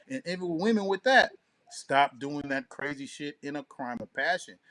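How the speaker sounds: usual speaking voice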